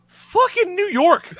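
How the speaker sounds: slow, high, loud laughing exclamation; exasperated yell. Retold or imitated. Telling friends outside about the charge: slow, loud, high laughing yell.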